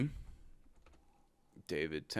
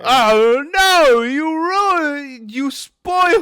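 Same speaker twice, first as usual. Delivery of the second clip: much higher and louder, a real cry of protest; outraged shock; 13 semitones higher, 11 dB louder, much slower than usual. Real, not acted. Listener yells at her friend for the Harry Potter spoiler, shocked and loud. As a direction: yelp it out as if the twist was just ruined.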